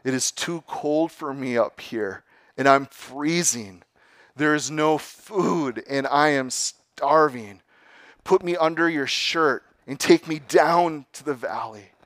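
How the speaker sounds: dying snake. Acted. Snake begging the youth on the peak, pleading. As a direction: beg as the freezing snake.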